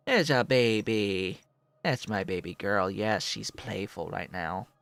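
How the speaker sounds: tender pet cooing. Real, not acted. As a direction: coo at her lovingly. Cooing over the cat.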